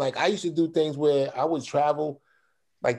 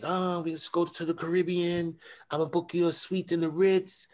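lightly voiced travel agent, pitched higher; 5 semitones higher, 4 dB quieter than usual. Travel agent selling him a dream trip, eager pitch. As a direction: reel off the luxury package in a lifted sing-through.

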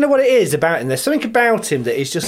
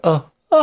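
melting "oh, oh", higher pitched; playful lovestruck gasp; mock swoon; 5 semitones higher than usual. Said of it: "I think I would have melted".

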